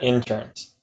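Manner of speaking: INSURANCE as IN-surance, IN standing out; emphasize the first syllable of INSURANCE; stress on IN. Shown as a demonstration. Host playfully echoes co-host, stressing the IN. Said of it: "so much emphasis on the in".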